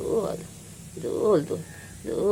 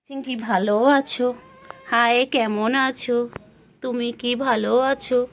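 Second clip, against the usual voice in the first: high pet-talk voice; 4 semitones higher, 3 dB louder than usual. Real, not acted. Owner coaxing the sulking pet, high baby talk. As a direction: coax the pet in a sing-song.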